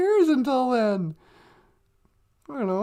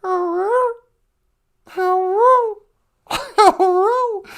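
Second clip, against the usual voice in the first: higher, yowled cat version of hello; meowed hello; 5 semitones higher, 5 dB louder, much slower than usual. Retold or imitated. Host imitates her cat wanting in, meowed hello. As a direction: slur HELLO into a high meow. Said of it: "sounds like he's saying".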